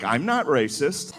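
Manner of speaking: slow declaration with rising end; woke white friend. Acted. Woke white friend posting, slow upturned self-defence. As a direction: announce it slowly, lifting at the end. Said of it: "new woke white friends that's just like".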